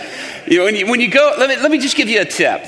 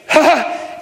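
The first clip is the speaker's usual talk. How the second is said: short, high mock laugh; imitated exclaiming laugh; 7 semitones higher than usual. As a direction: burst out with an acted "ha ha". Healed man's reaction, acted out.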